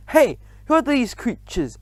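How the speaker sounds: a mild startled cry; teachers yelling. A narrator's reading. Teachers seeing mice, yelling. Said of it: "teachers is yelling".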